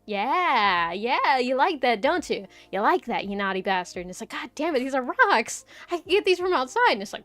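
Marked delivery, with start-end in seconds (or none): 0.0-4.0 mock teasing seller. Mocking store teasing the buyer. 4.3-6.9 higher, louder mock outrage at the price; mock outraged customer. A shopper scolding the store over pricey rocks, mock outrage.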